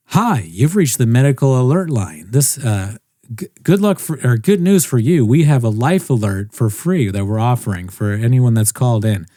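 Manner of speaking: lightly imitated robotic phone operator; computer robot voice. Alert-line agent greeting a wrong-number caller, lightly robotic. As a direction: read it like an automated hotline greeting, only lightly robotic. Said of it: "sounds even more like a computer robot voice".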